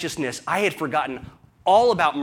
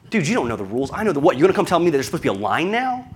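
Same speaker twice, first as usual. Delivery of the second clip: irritated retort; 4 dB louder, faster than usual. Retold or imitated. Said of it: "it pissed me off".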